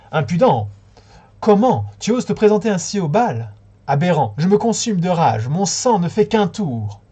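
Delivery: high, loud raging queen; furious shout. A narrator's reading. Wicked queen scolds Florine at the ball. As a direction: shriek with outrage, slowing at the end. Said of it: "devenir la méchante reine et ai crié".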